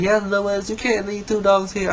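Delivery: a hint of a scolding white lady; mock white woman. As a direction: friend lecturing Lewis, mock white woman voice. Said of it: "becoming a white woman".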